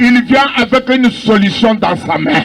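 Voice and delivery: fervent sermon cadence, half shouted; preaching. Acted. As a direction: preach it to the crowd. Preacher in full flow.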